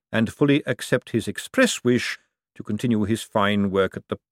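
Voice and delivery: measured, dry dictation with little shift from the narrator; a hint of the Patrician reading out a memo; lightly voiced Vetinari dictating. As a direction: dictate it coolly, a tyrant being polite.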